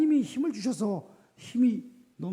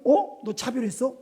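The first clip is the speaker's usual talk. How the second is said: mock outrage; 3 semitones higher than usual. Mocking the accuser.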